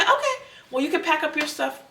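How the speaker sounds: high, laughing mock of the boss. Imitating the boss telling her to pack up, high and laughing. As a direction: mimic the boss lightly and high, half laughing. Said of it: "She just said".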